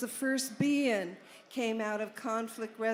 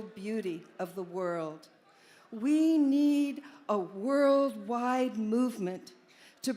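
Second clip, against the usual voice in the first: formal speech reading. Acted. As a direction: read it out like a manifesto. Reads Alan's Be-In statement aloud.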